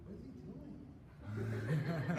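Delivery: put-on slow, disbelieving old-lady voice; puzzled old lady. Little old ladies watching, puzzled slow voice. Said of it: "people on this side are like".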